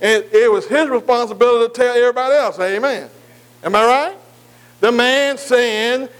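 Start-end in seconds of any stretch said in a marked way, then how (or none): 4.8-6.1 slow emphasis. Shown as a demonstration. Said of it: "repeated slowly".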